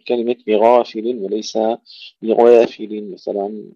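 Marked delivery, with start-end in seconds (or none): 0.5-1.2 بغافل with heavy gh and open long a; thick ghayn, fully open alif in بغافل. Shown as a demonstration. Teacher showing the correct word, open a in بغافل. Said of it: "مع المحافظة على فتح الألف". 2.2-3.1 بغافل with the long a leaning toward e; the mistake: narrow the alif of بغافل; tilted alif. Shown as a demonstration. Teacher showing what not to say, tilted a in بغافل. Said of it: "لا نقلل الألف".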